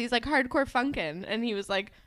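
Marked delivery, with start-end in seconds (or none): 0.2-1.2 quick mock quote; fast. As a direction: rattle off HARDCORE FUNKIN' in imitation. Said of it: "he said it so fast".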